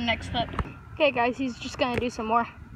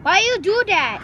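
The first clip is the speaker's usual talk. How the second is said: annoyed. Real, not acted. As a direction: scold the car. Scolding a honking car.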